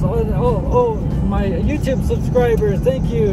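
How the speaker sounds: loud, high, thankful award speech; mock acceptance speech. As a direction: thank everyone like winning an award.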